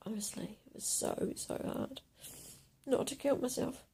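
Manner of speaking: hushed heartbroken whisper; barely voiced sorrow. Real, not acted. Confessing suicidal urge.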